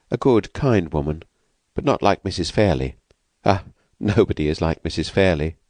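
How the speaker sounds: lightly voiced timid woman, anxious; frightened young woman. Escaped woman asks the narrator, lightly voiced and anxious.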